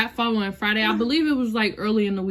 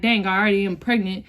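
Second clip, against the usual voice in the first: tearful. Real, not acted. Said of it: "oh, I'm about to cry".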